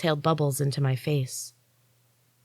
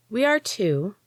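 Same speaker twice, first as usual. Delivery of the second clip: slow, drawn out; 7 semitones higher than usual. A narrator's reading. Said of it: "she said slowly, drawing out each word".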